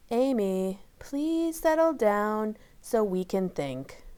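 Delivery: calmly. Acted. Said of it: "said P F C calmly".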